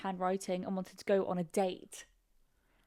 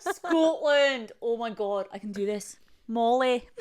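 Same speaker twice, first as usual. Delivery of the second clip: put-on warming up a Scottish accent; attempted Scottish accent; 4 dB louder, slower than usual. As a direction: try out a rough Scottish accent. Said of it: "My, my friend Molly is Scottish".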